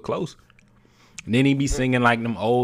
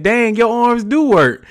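teasing mock surprise; 12 semitones higher, 5 dB louder, slower than usual. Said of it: "and I said".

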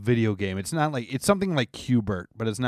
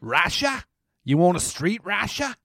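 a clumsy mock British accent, pitched up; hammy fake British accent, barely landing; bad British accent; 6 semitones higher than usual. Mocking a London hot dog seller, bad British accent. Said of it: "Your accents are fucking terrible".

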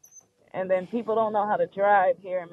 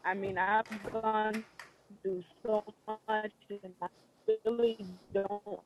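choppy broken-up call audio; over the phone; 4 dB quieter, slower than usual. Real, not acted. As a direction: voice cutting out on a bad connection. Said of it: "Oh, you're breaking up again".

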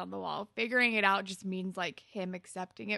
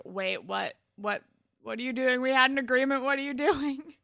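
building louder and higher, incredulous; mock alarmed protest; 5 semitones higher, 7 dB louder than usual. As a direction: imitate baffled protest, rising into a laugh. Voicing Marco's shocked protest.

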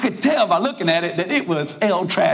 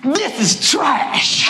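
slow, higher, pained verdict; blunt confession; 6 semitones higher, much slower than usual. Retold or imitated. Preacher tells hostess the truth, slow pained verdict. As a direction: drag it out, honest and pained. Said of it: "I said".

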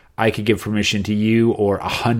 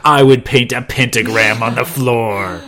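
laughing mock answer; 6 dB louder, slower than usual. Mock Ari answer, joking.

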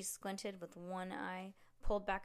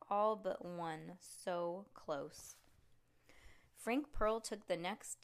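usual speaking voice

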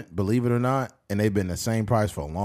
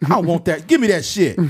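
higher, louder demand; greedy soldier; 5 semitones higher, 4 dB louder than usual. Pretend. Black soldier demanding the hot dog, louder mock demand. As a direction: grab for it.

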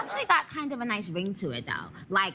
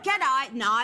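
copied Irish accent; 4 dB louder than usual. Shown as a demonstration. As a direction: have a go at Irish, leaping up on "So it is". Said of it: "See if you can do this".

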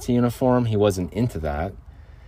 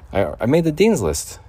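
proud; 7 semitones higher, 4 dB louder than usual. Real, not acted. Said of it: "You guys know how hard it is".

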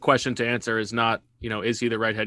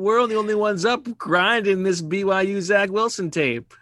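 stoner voice; 8 semitones higher than usual. Acted. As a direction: play it like a stoner dude. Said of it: "I don't know why I'm giving him a stoner voice".

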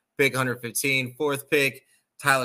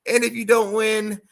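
rising heated point; 11 semitones higher, 7 dB louder than usual. Real, not acted. Heated sports rant to the viewers.

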